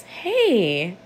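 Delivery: put-on kneel down and calm an upset child; gentle, validating parent. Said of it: "looks at the child and says".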